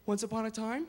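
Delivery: even fairy-tale narrator; storybook opening. Shown as a demonstration. Parent starting a bedtime story, calm storybook read. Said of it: "great way to start a story".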